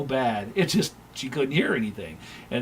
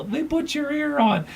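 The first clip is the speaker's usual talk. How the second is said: higher and slow, barely holding back laughter; amused retort; 4 dB louder than usual. Retold or imitated. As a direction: deliver it gleefully, stretched out. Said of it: "I go".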